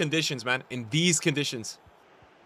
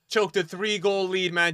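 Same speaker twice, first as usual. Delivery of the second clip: higher-pitched gloat, not shouted; raised, jeering trash talk; taunting; 5 semitones higher than usual. Real, not acted. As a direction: rub it in without yelling. Taunting opponent who lost lead.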